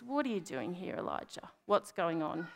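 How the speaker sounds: soft, hushed question trailing away; quiet. Retold or imitated. Preacher voicing God coming to Elijah after the storm, quietly. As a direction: ask quietly, letting the name nearly vanish. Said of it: "comes quietly to Elijah and says".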